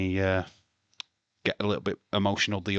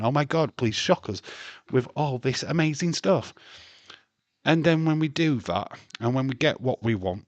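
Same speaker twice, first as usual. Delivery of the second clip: mock fan excitement; 5 semitones higher, 3 dB louder than usual. Mocking demanding wrestling fans.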